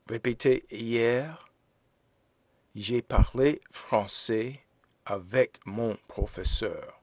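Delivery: hier, j'ai parlé français avec mon professeur said clearly; teacher models the past tense sentence; model French sentence. Shown as a demonstration. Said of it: "So we say".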